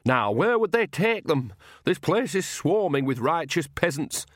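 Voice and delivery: put-on high-pitched, urgent old countrywoman; exasperated old nanny voice; brisk Nanny figure.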